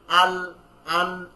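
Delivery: "আল, আন" held slowly with no bounced ending; slow sukun letters; soft stop, no bounce. Shown as a demonstration. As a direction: let it rest, no jolt. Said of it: "ধাক্কা দিচ্ছি না".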